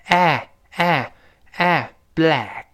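"哎" as a long open "æ", carried into "black"; wide-mouthed vowel. Shown as a demonstration. Teacher drills the vowel with learners, spread wide. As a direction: stretch the vowel, mouth pulled to the ears. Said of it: "嘴口一定要往两边咧开".

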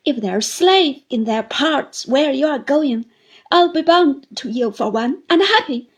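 put-on high, loud, crying old widow begging; tearful pleading. A narrator's reading. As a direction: offer herself as his servant through tears. Mrs Gummidge begs to come along.

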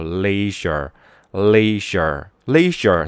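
careful, measured 'leisure' for learners; pronunciation model. Shown as a demonstration. Teacher tells class to note how the word reads, pronunciation model. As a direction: say 'leisure' clearly as a word to copy. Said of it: "注意这个单词读".

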